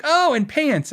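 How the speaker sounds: high-pitched sudden realization; mock realization. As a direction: act like it just dawned on you. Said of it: "And I was like".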